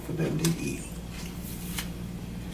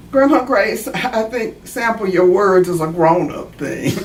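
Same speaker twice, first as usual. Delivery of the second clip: put-on laughing child. Natalie answers grandma laughing.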